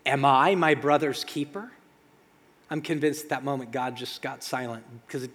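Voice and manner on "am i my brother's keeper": defiant retort. Acted. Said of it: "And Cain goes".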